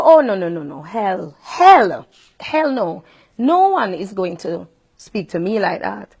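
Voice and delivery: firm, indignant refusal; retold angry refusal. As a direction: shut him down hard. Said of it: "this is where I got mad".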